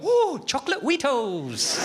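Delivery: put-on high, slow, delighted childish squeal; excited child. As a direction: squeal like a kid spotting cereal. Kids excited by sugary cereal.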